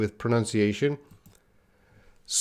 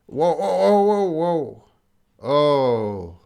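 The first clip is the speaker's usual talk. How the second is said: surprised whoa; 4 semitones higher, much slower than usual. Real, not acted. Teacher surprised by the chat.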